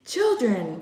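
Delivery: put-on sharp call to the children; alarmed adults calling out to the children; crying out. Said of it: "voices cried".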